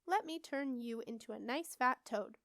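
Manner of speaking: mildly lilting witch voice; a touch of eerie sing-song; strange sing-song. A narrator's reading. Witch threatens the rat in a light sing-song. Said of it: "in a strange sing-song voice".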